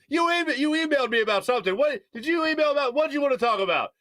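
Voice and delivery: high, rapid-fire questioning; imitated yelling. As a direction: imitate an oblivious loudmouth firing questions. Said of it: "Still yelling".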